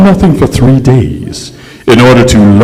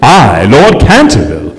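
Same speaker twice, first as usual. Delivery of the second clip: rising, higher outrage of an offended lord; wounded indignation; 6 semitones higher than usual. Acted. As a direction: swell up with aristocratic indignation. Ghost indignantly recounts his humiliation.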